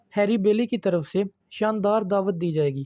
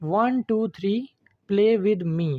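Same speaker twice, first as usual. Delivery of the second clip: recited nursery rhyme; slower than usual. Shown as a demonstration. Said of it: "ये example देखें".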